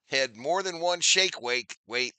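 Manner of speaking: slow, drawn out, spelling it out for the chat; slow teasing repeat. Real, not acted. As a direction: stretch each word to rib him. Slowed teasing repeat for effect.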